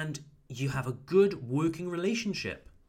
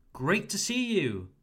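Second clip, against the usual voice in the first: "Great to see you" raised and cheerful; happy greeting; 5 semitones higher than usual. Shown as a demonstration. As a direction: greet a client you are glad to see. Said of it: "happy to see your client".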